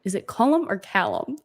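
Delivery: CULLUM with an UH, then CALLUM with an A; two pronunciations. Shown as a demonstration. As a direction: ask it, contrasting Cullum and Callum. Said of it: "How am I saying it?".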